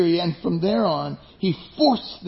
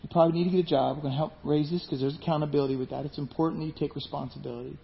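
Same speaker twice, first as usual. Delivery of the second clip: calm caring dad; 3 semitones lower, 7 dB quieter, faster than usual. Retold or imitated. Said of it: "a healthy dad would say".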